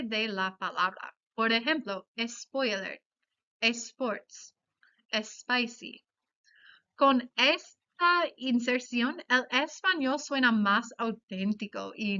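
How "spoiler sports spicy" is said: Spanish-style "spoiler, sports, spicy", starting es-; E added in front. Shown as a demonstration. Teacher showing anglicisms to students, E added before "spoiler, sports, spicy". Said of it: "añadimos el sonido vocálico E en frente".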